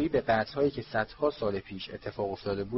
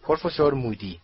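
mildly raised voice calling out a name; announcing loudly; 2 semitones higher, 3 dB louder than usual. Acted. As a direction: announce it to the hall, a little louder. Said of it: "دامبلدور بلند گفت".

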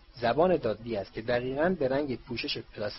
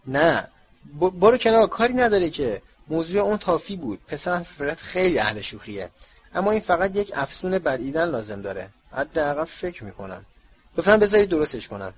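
loud, higher, stumbling pleas; urgent, louder, faster at the end; flustered shouting; 5 semitones higher, 7 dB louder than usual. A narrator's reading. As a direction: shout over the screaming family. Weasley shouting amid chaos.

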